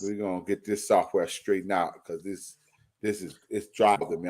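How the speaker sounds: choppy line, words dropping out; freezing up. Real, not acted. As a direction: voice stalling like a frozen call. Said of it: "I'm freezing up".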